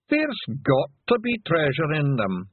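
high-pitched Pictsy insisting on treasure; Daft Woolly, eager Feegle. Acted.

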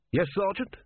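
high, rising answer on "Yes, Sergeant"; questioning reply. Acted. Corporal answers challenge, questioning.

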